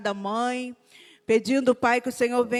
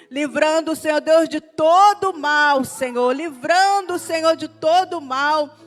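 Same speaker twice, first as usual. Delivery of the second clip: louder fervent plea; 2 semitones higher, 5 dB louder than usual. Real, not acted. Intensified plea for protection.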